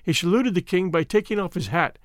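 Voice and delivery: usual speaking voice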